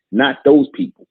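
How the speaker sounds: sharp high rising exclamation; exclaimed high. Real, not acted. Preacher scoffing at excuse-makers, high exclaimed. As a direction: fling it up high in disbelief. Repeats phrase, first take exclaimed.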